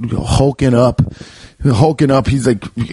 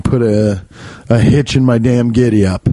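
cowboy talk. Acted. Complaining about the raccoon, light cowboy accent. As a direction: slip slightly into a western cowboy accent. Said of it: "talking like fucking Red Dead Redemption".

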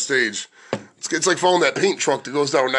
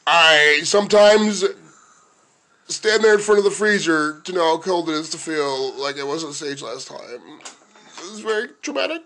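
Pat; slower than usual. Acted. Host mocking co-host's bad night on stage, slow fragile impression. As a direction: draw it out like a wounded soul. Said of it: "we'll do Pat in a kind way".

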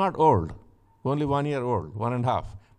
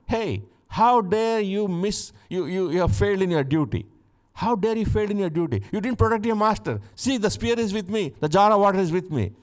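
mock shout; 6 semitones higher than usual. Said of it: "they shout".

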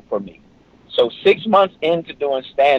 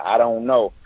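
flat helpless I don't know; a hint of bewildered young comic; clueless shrug; 3 semitones lower, 3 dB quieter than usual. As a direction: say it like you truly have no idea. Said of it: "I just said it just like that".

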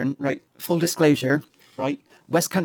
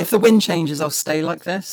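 Dick Van Dyke cockney. Pretend. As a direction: play a Mary Poppins chimney sweep in a cockney accent. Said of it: "I can't do this for very long".

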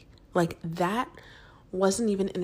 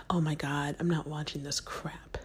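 whispering; 3 semitones lower, 5 dB quieter than usual. Retold or imitated. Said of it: "Rob is like".

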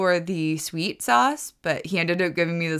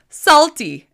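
high, loud mock shout of one word; imitated shout; 10 semitones higher, 10 dB louder than usual. Shop guy shouting at a returning customer, imitated. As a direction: yell it across the shop, imitating him. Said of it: "he shouts".

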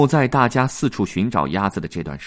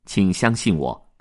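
reassuring; 3 semitones lower than usual. Acted. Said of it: "黄氏鸭子安慰他说".

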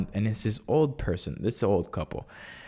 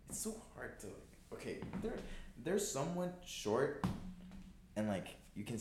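out of frame; 6 semitones higher, 18 dB quieter than usual. Real, not acted. Talking away from the mic.

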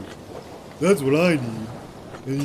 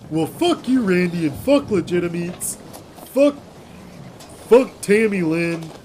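furious yelling curses; angry shouting; 3 semitones higher than usual. Acted. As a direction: swear at them in rage. Angry rant after hang-up.

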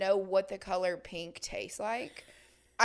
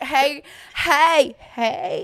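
eager greeting; 4 semitones higher, 14 dB louder, much slower than usual. Retold or imitated. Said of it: "I'm like".

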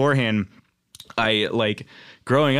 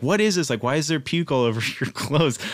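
mad mom; 3 semitones higher than usual. Retold or imitated. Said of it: "she was, like, really mad".

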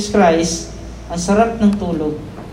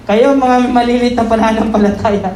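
a light, higher scolding; mild rebuke; 4 semitones higher than usual. Retold or imitated. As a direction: gently chide the fearful disciples. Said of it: "sabay kasama ng rebuke".

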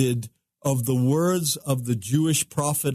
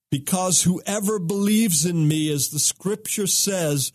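raised, higher proclaiming voice; crying out loudly; 5 semitones higher than usual. Retold or imitated. Yeshua calling out to the festival crowd, raised proclamation. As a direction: lift the voice as if calling over a crowd. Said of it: "cried out loudly, not softly, loudly".

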